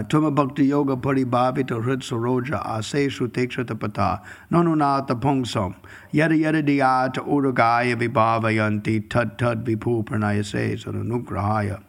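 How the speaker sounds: steady chanted Sanskrit recitation, slowing at the end; verse recitation. Acted. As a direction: recite the shloka reverently.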